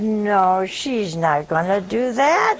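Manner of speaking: drawn-out, dismissive denial; mock reassurance. Counselor retelling how she reassured a doubting husband, drawn-out denial. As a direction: stretch it out as if it were absurd.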